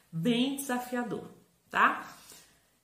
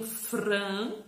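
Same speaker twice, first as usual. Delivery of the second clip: FRAN set apart and drawn out; lengthened, separate FRAN; isolated syllable. Shown as a demonstration. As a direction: present Fran as a piece on its own. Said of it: "com quatro letras".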